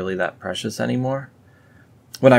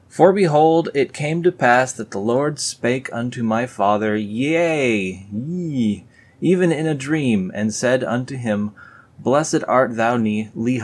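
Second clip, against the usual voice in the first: raised, grand King James reading voice; solemn scripture reading; 4 semitones higher, 4 dB louder than usual. Acted. Vlogger reading the Book of Mormon aloud, mock solemn. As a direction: read it like a booming preacher.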